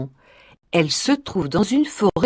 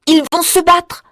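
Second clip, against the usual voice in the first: Marie thinking; 7 semitones higher than usual. A narrator's reading. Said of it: "pense Marie".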